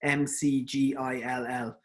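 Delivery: slow, letter-by-letter clarification; careful spelling out. Real, not acted. Lecturer repeats the pain scale's name on request, slowly spelled out. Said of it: "someone has just asked me to, to repeat the name".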